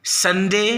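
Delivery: संडे spoken as a classroom model word; model pronunciation. Shown as a demonstration. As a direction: clear teacher model of संडे as "sun-day". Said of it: "name of days की शुरुआत करते हैं".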